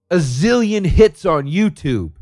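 mocking. Mocking exaggeration, slowed.

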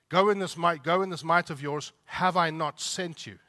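preacher booming God's words to Gideon; forceful command. Retold or imitated. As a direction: proclaim it like a divine commission.

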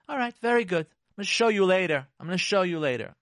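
mock threat, rising out of restraint; holding it in. Spouse bottling it up for later, passive-aggressive. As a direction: agree tightly, then let the threat show. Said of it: "That's holding it in".

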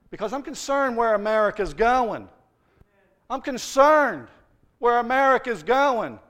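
loud, rising preacher voice as God; God's concern. Acted. Preacher voicing God's concern for America, loud and urgent. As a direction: proclaim God's worry with full force. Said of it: "and says".

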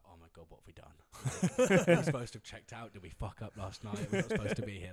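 laughing re-enactment of panic; retold panic. Hungover player to roommate on waking, mock panic. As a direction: play up the morning-after panic through laughs. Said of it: "like, pure panic".

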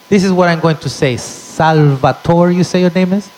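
setting up the insult; mock polite; sly mom. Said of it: "My mom said".

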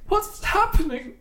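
high slow ghostly wail; spooky ghost voice. Acted. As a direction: drag it out like a ghost. Ghost voice again.

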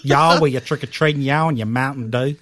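hammed-up, terrible Canadian-turned-Southern accent; badly faked accent. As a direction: fake a North American accent badly. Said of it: "That's terrible".

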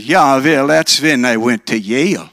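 put-on light Minnesota Scandinavian accent for Ole; Ole's Scandinavian accent. Ole answers the factory interviewer, in a light Scandinavian accent. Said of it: "They talk like this".

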